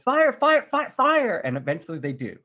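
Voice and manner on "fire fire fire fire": high, loud, insistent shouting; repeated yelled command. Retold or imitated. General urging his men to shoot, yelled repeatedly. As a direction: yell the order over and over. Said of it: "like, he yells".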